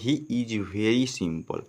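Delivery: each word read slowly and clearly; slow dictation pace; slow reading aloud. Shown as a demonstration. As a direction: read the sentence slowly for the class. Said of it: "next word क्या लिखा है".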